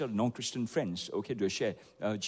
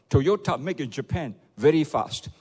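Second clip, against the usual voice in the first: proud shout; 2 semitones higher, 6 dB louder than usual. Retold or imitated. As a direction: call it out like a proud tourist. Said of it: "shouted out".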